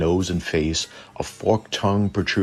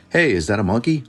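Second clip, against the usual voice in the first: higher and louder, shrieking up on Chupacabra; comic bystander yelling at a strange animal, mock alarm; mock panicked witness; 5 semitones higher, 4 dB louder than usual. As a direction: ham up a jumpy yokel spotting a monster. Mocking gullible witnesses crying chupacabra.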